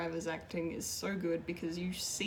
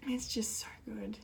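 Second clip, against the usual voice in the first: plain; 3 semitones higher than usual. Real, not acted. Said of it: "I am emotional".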